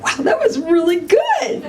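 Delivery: high, slow, laughing self-praise; proud laughing. Retold or imitated. Telling the audience about her own no, proud and laughing. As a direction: savor the win with a laugh. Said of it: "really proud of myself".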